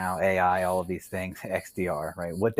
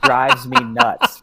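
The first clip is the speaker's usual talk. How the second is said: laughing shout; 9 dB louder than usual. Real, not acted. Laughing at teed-up joke.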